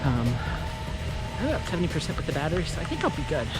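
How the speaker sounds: talking mid-jog; while running. Real, not acted. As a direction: speak while running along. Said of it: "I'm gonna go back to running".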